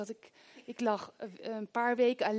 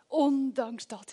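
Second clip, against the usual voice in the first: "ondanks dat" slow and firm; slow insistent; much slower than usual. Shown as a demonstration. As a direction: stretch "ondanks" with resolve. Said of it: "dat we zeggen".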